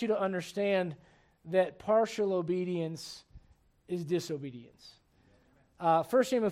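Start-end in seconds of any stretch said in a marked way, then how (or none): 1.5-4.9 quiet, slow emphasis. Real, not acted. Key sermon line, dropped low.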